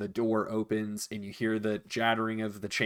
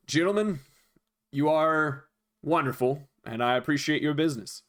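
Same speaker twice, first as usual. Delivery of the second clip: a lightly voiced innkeeper gushing over the tip; grateful innkeeper; 3 semitones higher than usual. Thanking generous guests for the tip, lightly voiced grateful innkeeper. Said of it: "he says".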